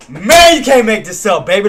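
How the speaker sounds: excited shout of triumph; hyped. Real, not acted. Streamer celebrating a winning trade, excited shout. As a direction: yell it out in joy.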